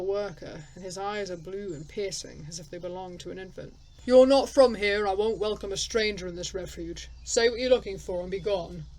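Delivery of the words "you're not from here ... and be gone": stern elder. Acted. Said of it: "reminds you of a combat instructor".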